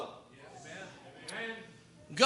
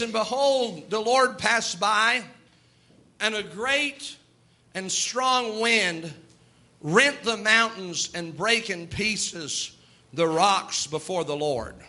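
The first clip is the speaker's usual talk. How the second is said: slow scripture reading; slower than usual. Acted.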